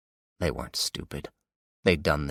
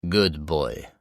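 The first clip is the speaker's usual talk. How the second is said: put-on Russian accent. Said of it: "his Russian accent obvious".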